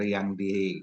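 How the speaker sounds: choppy, dropping connection audio; radio breaking up. Real, not acted. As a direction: voice cutting out mid-sentence. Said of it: "Pak, suaranya hilang loh".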